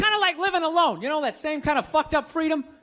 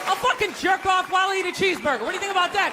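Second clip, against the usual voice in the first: defiant shout; 4 semitones higher, faster than usual. Acted. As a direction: yell it right back at him. Defiant rant at priest.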